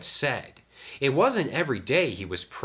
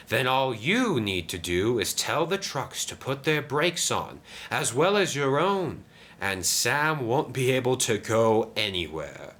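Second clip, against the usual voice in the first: higher, conspiratorial engine voice; scheming Diesel; 6 semitones higher than usual. Acted. Diesel instructs his accomplices, scheming. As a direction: lay out the sly plan with relish.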